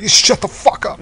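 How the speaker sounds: high, slow mock yell; imitated outburst. Imitating the captain snapping at his officer, mock yell. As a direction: fling it out like a captain losing it. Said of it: "He loses it. Out of nowhere".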